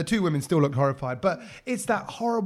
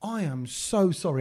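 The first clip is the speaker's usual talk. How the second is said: slow, careful posh English; lightly put-on posh voice; posh apology voice; slower than usual. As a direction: retell an over-polite apology in a posh accent. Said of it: "my proper posh Gora voice".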